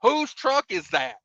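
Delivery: a sharper second ask; guard losing patience; impatient guard. Retold or imitated. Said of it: "security guard again".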